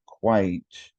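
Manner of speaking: "quite" as one beat, vowel straight into t; one-syllable QUITE. Shown as a demonstration. Teacher contrasts two confusable test words, one-syllable "quite". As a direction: say "quite" without a second syllable. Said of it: "the only thing that's different".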